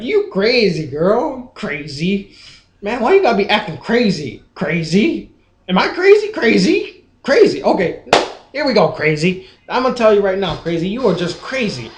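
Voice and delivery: lightly mimicked geeky Southern boy cop; hint of a geeky Southern accent, pitch jumping on crazy. Mocking a movie cop talking to Jill, lightly imitated Southern geek. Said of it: "That's exactly how he talks".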